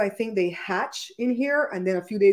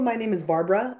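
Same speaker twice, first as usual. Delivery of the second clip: BARBARA run together quickly; quick, slurred-together BARBARA; said too fast. Shown as a demonstration. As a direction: rush through the name Barbara so its syllables blur. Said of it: "I say it so fast".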